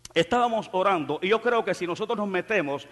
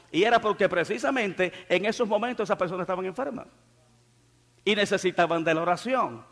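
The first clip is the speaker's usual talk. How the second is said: ordinary talk, nothing marked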